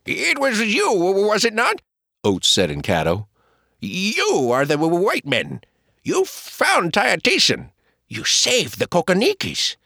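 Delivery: high, halting Caddo man; Oates stammering. Acted. Oates recognising the white men, high and halting.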